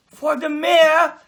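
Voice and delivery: high, slow astonished question; surprised question. Acted. Friend amazed the cake is for the mayor. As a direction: ask it amazed.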